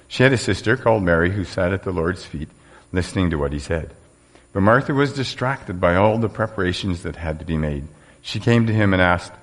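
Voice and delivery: measured Bible reading to the congregation; preacher reading Luke aloud; scripture reading. Acted. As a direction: read the passage out clearly.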